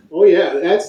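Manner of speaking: mock Canadian. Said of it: "that was a little too Canadian for me".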